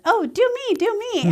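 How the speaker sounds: high, eager begging voice; squealing do me, do me; pleading friend. Retold or imitated. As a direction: beg like an excited friend. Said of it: "and she says".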